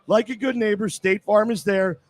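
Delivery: live radio commercial; radio ad read. Acted. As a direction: clear ad read, phone number spelt out. Host reads the sponsor ad.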